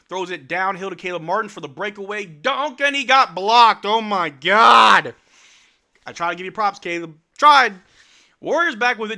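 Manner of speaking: loud, high excited yelling; excited shout. Real, not acted. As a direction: yell at the blocked dunk. Breakaway dunk gets blocked.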